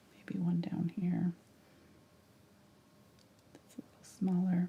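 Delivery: hushed, soft whisper. While painting snowflakes, the speaker narrates their next step, whispering. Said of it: "Don't know why I'm whispering".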